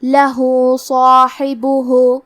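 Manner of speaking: لہو صاحبہ slow, the ہو lengthened slightly and the صا full and heavy; short madd. Shown as a demonstration. Teacher demonstrates the small madd silah. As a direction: stretch the hu in لہو a little, heavy صا. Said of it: "مد صلہ صغرا کو ہمیں ظاہر کرنا ہے".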